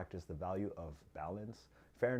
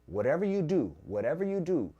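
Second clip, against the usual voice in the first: louder and higher, stress on you; emphatic warning; 6 semitones higher, 7 dB louder than usual. Shown as a demonstration. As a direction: warn them, punch each repeat. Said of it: "this is very important".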